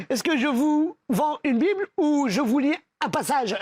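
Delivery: laughing at his own punchline; laughing through the line. Acted. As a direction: break up with laughter while delivering it. Stutterer offers to read, laughing.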